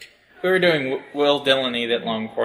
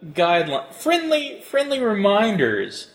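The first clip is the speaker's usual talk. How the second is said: John Henry Eden. Acted. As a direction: address them like an ominous leader. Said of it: "You are totally sounding like John Henry Eden right now".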